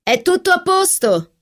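high reassuring call from another room. Acted. Catherine calling back from the study, high call. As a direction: call out it's all fine, pitched high. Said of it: "gridò Catherine".

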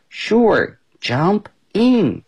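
high bright welcome; Amy cheerfully inviting the kangaroo into her pool; cheerful invite. Acted.

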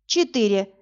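ordinary delivery

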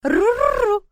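high, loud stubborn dragon coo. A narrator's reading. Дракон упирается. (упрямое воркование дракончика)

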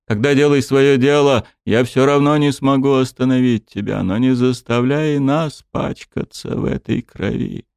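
resigned king. Acted. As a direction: give in, but plead. The king answers.

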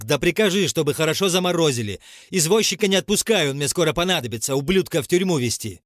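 командный окрик на весь сад; кричать приказы во всю глотку; громкий крик. A narrator's reading. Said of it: "Он крикнул таким голосом". (громкий приказной крик)

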